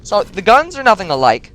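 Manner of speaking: high, loud ranting burst; heated rant. Real, not acted. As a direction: pile it on, exasperated. Ranting that the games differ.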